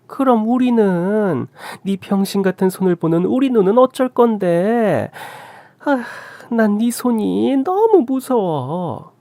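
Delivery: high, slow, drawn-out disdain; high-pitched, mocking complaint; scornful mother-in-law. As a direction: stretch the phrase endings in exaggerated distaste. Mother-in-law insults injured daughter-in-law.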